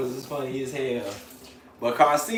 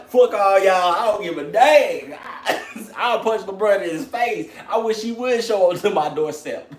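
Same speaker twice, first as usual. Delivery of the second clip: mock defiance; 5 semitones higher, 4 dB louder than usual. Voicing Carcino's defiant reply.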